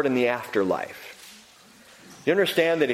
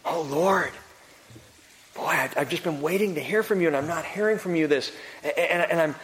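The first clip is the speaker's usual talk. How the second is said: honest question; 3 semitones higher than usual. Retold or imitated. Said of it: "Asking God directly".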